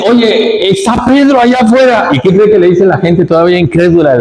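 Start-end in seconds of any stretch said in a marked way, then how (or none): 0.1-2.1 put-on high, eager girl's voice; girl's news. Rode telling the church that Pedro is outside, high eager voice. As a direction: rush the news in a higher voice.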